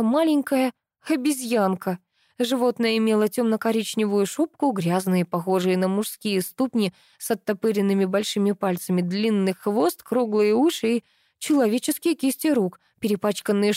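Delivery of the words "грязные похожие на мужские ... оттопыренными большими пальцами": ordinary delivery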